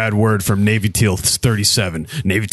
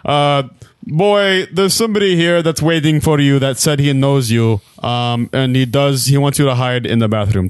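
shopkeeper voice; 3 semitones higher than usual. Acted. Shopkeeper keeps talking.

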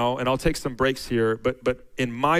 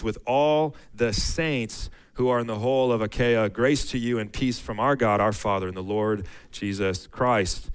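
raised, measured reading of the verses; scripture reading. Acted. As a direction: read it out like a pulpit lesson. Reads Second Corinthians aloud.

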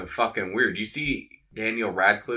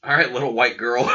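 laughing; 2 semitones higher, 5 dB louder than usual. Real, not acted. Laughing at the quote.

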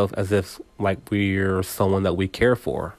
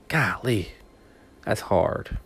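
whispered aside; 5 dB quieter, slower than usual. Real, not acted. Admits asking for help is hard.

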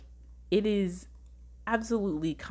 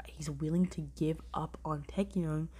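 hushed whisper; 3 dB quieter than usual. Real, not acted. Emotional about character's sacrifice.

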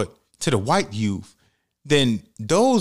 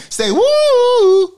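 high excited call; 10 dB louder than usual. Real, not acted. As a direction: whoop the cue high and loud. Prompting child to vocalize.

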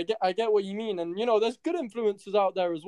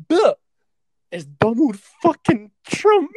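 laughing; 10 semitones higher, 5 dB louder, slower than usual. Real, not acted. Laughing emphasis.

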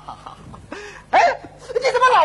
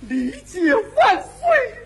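mock tearful cry; 3 semitones higher, much slower than usual. Moved to tears by understanding.

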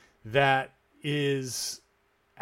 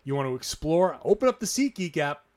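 upbeat sponsor read, punchy; energetic host-read commercial. Acted. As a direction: sell it like a podcast ad.

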